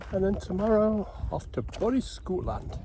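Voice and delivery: put-on a deliberately terrible Scottish accent on bonnie Scotland; bad Scottish accent. Vlogger announcing his trip north, in a bad Scottish accent. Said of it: "That's the worst Scottish accent".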